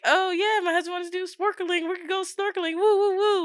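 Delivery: pep-rally keenness, a bit forced; mock excited.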